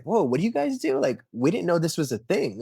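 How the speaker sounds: high, wide-eyed mock amazement; amazed visitor. People at booth amazed.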